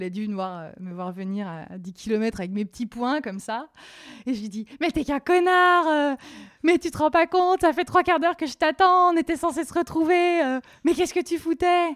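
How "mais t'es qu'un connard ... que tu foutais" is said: high, loud furious shouting; furious yelling. Retold or imitated. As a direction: scream at him like a fury. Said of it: "j'arrive comme une furie".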